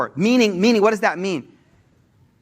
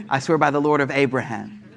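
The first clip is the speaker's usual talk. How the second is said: chuckling while quoting her; amused, half laughing as he translates; laughing through the words; 3 semitones lower, 4 dB quieter than usual. Real, not acted. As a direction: let the laugh spill into the line. Laughing at Aisha's sweet trick.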